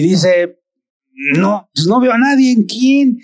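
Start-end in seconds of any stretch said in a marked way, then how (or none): 1.4-3.2 a father brushing off the warning, lightly voiced; father answering his son, mildly puzzled. Father replies in story.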